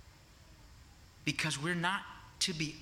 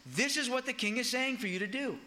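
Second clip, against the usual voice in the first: herald proclaiming; 7 semitones higher than usual. Retold or imitated.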